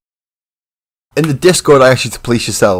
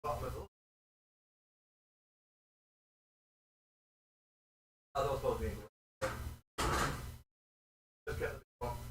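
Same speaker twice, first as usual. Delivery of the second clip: higher, softer voice from off in a cupboard; away from the mic; 9 semitones higher, 12 dB quieter than usual. Real, not acted. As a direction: call it out faintly while rummaging away from the mic. Off rummaging in the cupboard.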